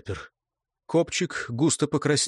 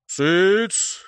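good-natured hush; 5 semitones higher, 3 dB louder than usual. A narrator's reading. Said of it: "добродушно прогудел Машкара".

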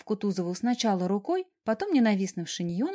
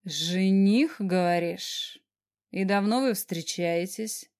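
jealous boss questioning Sasha in a slow rumble; rumbling boss; slower than usual. Acted. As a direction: let it roll slowly and darkly. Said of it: "пророкотал".

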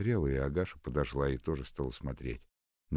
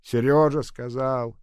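louder, slow mocking echo; mocking mimic; 11 semitones higher, 12 dB louder, slower than usual. A narrator's reading. Old nurse mocking Nadenka's words, sarcastic mimic. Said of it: "передразнила Агаша".

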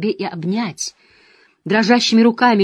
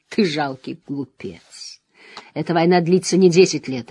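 dark lord. Acted. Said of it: "Последние слова он выкрикнул".

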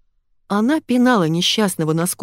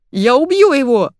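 higher, louder furious yell; 7 semitones higher, 6 dB louder than usual. A narrator's reading. Zaya yells she will kill the academic. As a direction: scream the threat. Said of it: "завопила она".

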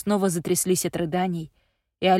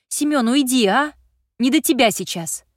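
angry grumble; 5 semitones higher, 5 dB louder than usual. Acted. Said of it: "Зло пробурчала Аня".

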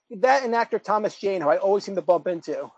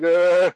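loud pretend groan; drawn-out mock "uh" groan; 3 semitones lower, 5 dB louder than usual. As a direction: let out a groan as if passed out. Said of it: "I'll be like".

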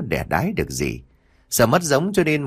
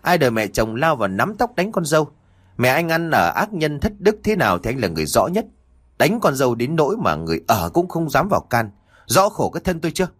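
shrewish complaint; 4 semitones higher, faster than usual. Acted. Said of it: "chua ngoa xoắn cái miệng lên mà chu chéo".

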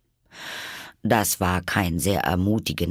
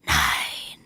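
sleepy caterpillar; 5 semitones lower than usual. A narrator's reading. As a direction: drone it low and drowsily. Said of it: "mit schläfriger, langsamer Stimme". (tiefe, schläfrige Raupenstimme)

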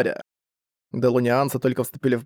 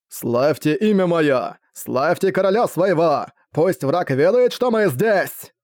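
rallying battle cry; 3 semitones higher, slower than usual. Acted. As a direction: roar it at the troops. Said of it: "вдохновлял солдат Грюер".

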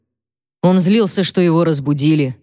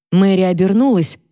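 ordinary delivery

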